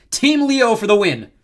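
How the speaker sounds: high, loud, drawn-out victory call; rally the crowd to your team; triumphant cheer. A narrator's reading. Leo rallies the crowd.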